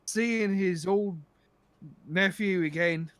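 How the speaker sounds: lightly voiced boastful Irish brogue; Irish accent. Drunk pirate bragging about the ransom, light Irish accent. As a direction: brag with a touch of Irish accent. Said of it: "how bad my Irish accent is".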